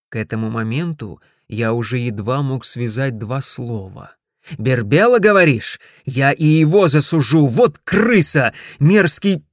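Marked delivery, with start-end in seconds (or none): 4.6-9.4 loud, higher spluttering fury; sputtering rage. Acted. Ted sputters at Dorothea, loud and furious. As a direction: choke on the anger.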